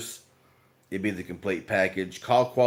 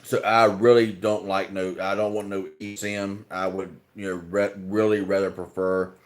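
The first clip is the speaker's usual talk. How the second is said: talking around ice cubes; ice in mouth. Real, not acted. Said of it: "I got ice in my mouth".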